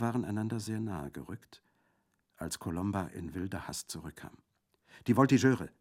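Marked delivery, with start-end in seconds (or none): 5.1-5.7 loud, higher alarm call; alarmed cry. Acted. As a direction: shout the warning. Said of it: "rief sie".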